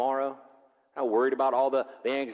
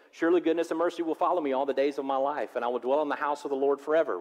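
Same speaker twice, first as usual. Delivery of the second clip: excited; 2 semitones higher, faster than usual. Real, not acted. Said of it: "I get excited about that".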